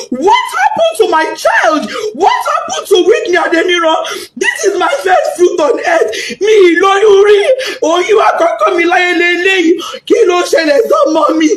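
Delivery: anguished mother calling out; desperate plea. Retold or imitated. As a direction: beg for answers through tears. Mother retelling her desperate questions.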